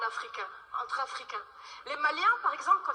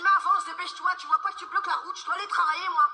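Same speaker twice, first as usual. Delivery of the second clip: louder, fast Parisian snapping; annoyed Parisian; 3 semitones higher, 5 dB louder, faster than usual. Retold or imitated. Parisian telling the woman crossing the street to hurry, annoyed. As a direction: hurry her along, irritated. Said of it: "un Parisien qui s'énerve".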